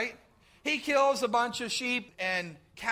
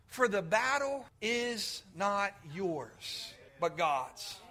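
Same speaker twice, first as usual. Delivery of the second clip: solemn hush; 5 semitones lower, 6 dB quieter, slower than usual. Acted. Solemn quote of God's word.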